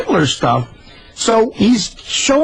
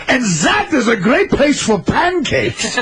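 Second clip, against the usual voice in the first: laughing quote; 6 semitones higher, slower than usual. Retold or imitated. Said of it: "he points to a place and he goes".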